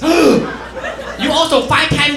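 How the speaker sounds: mom. Retold or imitated.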